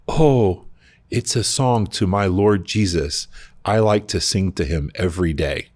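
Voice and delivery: lightly imitated Zimbabwean accent, slow and high; a gentle Zimbabwean accent, taken slowly. Attendant explains his song in a lightly imitated Zimbabwean accent. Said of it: "says to me in his accent".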